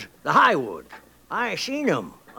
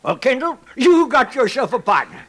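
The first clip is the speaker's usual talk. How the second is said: gleeful laugh; 7 semitones higher, 5 dB louder than usual. Acted. Old prospector seals the partnership.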